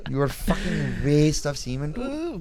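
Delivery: mock Indian dad. Dad's rant continues.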